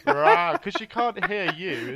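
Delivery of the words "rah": high mock roar, retold; acting out a roar in his room. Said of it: "I'm going".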